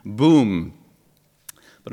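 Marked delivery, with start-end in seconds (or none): 0.0-0.7 loud punchy Batman fight noises; comic-book sound effects. Retold or imitated. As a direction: bang them out like a cartoon fight. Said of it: "full of onomatopoeias".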